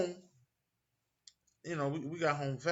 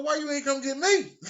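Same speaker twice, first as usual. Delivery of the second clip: high, loud and laughing; mock-offended at mom; laughing indignation; 11 semitones higher, 6 dB louder than usual. Mom fetched brother, not him.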